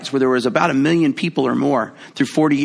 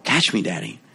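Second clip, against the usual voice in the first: low mock child; 8 semitones lower, 4 dB quieter than usual. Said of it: "They don't know".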